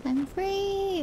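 high, held-out cry of freedom; playful high-pitched doggy jubilation; mock jubilant dog. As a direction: voice an overjoyed dog, stretching the last word. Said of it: "That's how she is every morning".

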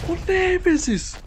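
high drawn-out cry of frustration; frustrated shout. Real, not acted. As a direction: wail the name in despair. Shouting at enemy.

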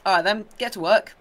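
a little bird ordering the gardener about; bossy robin. Retold or imitated. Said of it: "They turn up and like".

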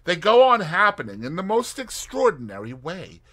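lightly voiced eager young woman; young Tuppence, eager. Tuppence pitching her plan to Tommy, eager young woman. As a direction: lay out the plan with spirit.

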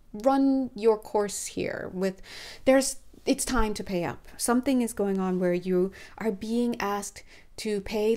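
breathless, gasping between phrases; out of breath. Real, not acted. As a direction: talk short of breath, winded. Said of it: "I'm getting really out of breath talking".

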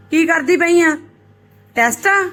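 loud and high nosy questions; pry loudly like a dramatic aunty. Pretend. Mother loudly checks on daughter.

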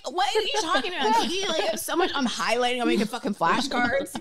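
high-pitched, half-laughing frantic protest; mock panic. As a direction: retell it flustered and incredulous at your sister. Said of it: "You know, I'm panicked".

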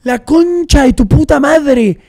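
loud, slow, high curse after a scare; shocked cursing. Real, not acted. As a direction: swear it out, still shaking from the jump scare. Maldice tras el susto. (maldición fuerte y lenta del susto)

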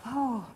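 hushed gasp of amazement; awed gasp. Retold or imitated. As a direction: gasp lightly in wonder. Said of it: "I got kinda like".

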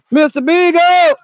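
slow loud call across the woods; yelling a dog's name, slowly. Real, not acted. Calling for lost dog.

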